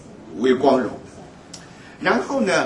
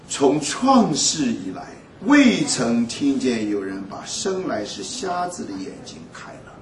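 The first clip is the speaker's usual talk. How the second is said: slow scripture reading; slower than usual. Acted. Preacher reads key verse.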